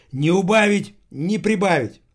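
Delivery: put-on high, loud old woman's verdict; approving old cleaner. A narrator's reading. Cleaner comments approvingly on speech. (старуха одобряет, громко и высоко)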